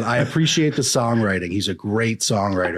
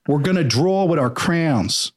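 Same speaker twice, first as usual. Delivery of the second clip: Philly repeat; 6 semitones higher than usual. Retold or imitated. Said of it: "I'm like, "What?".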